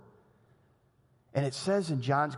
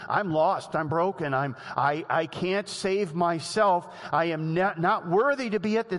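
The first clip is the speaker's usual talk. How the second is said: broken confession; 4 semitones higher, 4 dB louder than usual. Retold or imitated. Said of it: "you have to come to a place where you say".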